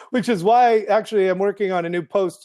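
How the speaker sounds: laughing. Real, not acted. Talks on through a laugh.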